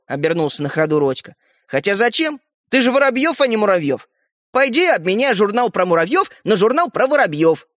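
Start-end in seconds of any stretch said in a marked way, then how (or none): 1.7-7.7 higher, lively jeer; taunting. Acted. Brother mocking the surname Воробьёв, taunting. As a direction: tease him loudly, pitched up.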